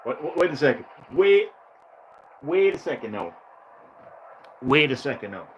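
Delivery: loud, high-pitched incredulous wait-wait. Real, not acted. Gamer shouting at the game's informant over the phone, loud disbelief. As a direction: stop him with a rising, disbelieving burst.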